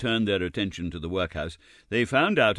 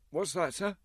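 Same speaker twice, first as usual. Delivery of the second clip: put-on timid boy; 10 semitones higher, 4 dB quieter than usual. A narrator's reading. Oliver asks timidly.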